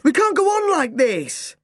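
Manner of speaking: put-on boy yelling at Mum about home. A narrator's reading. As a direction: let it all burst out. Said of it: "but I kept yelling".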